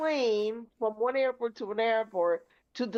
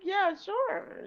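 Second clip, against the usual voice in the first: unenthusiastic; 9 semitones higher than usual. Retold or imitated. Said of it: "That was not very enthusiastic".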